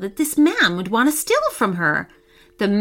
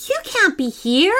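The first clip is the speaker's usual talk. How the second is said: blubbing; 5 semitones higher than usual. Acted. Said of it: "blubbed Chloe".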